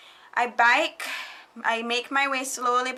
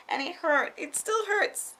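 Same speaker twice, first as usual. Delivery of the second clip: whiny complaint; 8 semitones higher than usual. Pretend. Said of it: "needles are big".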